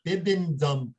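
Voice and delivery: BIBENDUM said slowly, drawn out. Shown as a demonstration. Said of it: "Say it slower".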